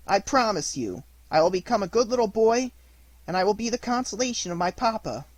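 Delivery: put-on bright, eager little boy promising; eager promise. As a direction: promise it all in a rush of excitement.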